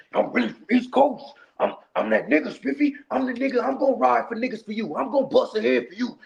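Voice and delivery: lightly voiced braggart bigging himself up; hyped-up boaster. Imitating the friend bragging in his ear from the driver's seat. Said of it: "he all in my ear".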